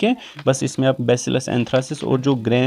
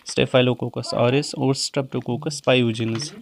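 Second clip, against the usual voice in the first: slow dictation; 3 dB quieter, much slower than usual. Shown as a demonstration. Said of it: "ये दो important है".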